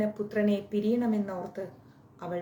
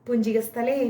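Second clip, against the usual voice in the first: louder call of the name; 3 semitones higher, 6 dB louder than usual. Acted. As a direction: call her name from afar. Brihaspati's voice calling name.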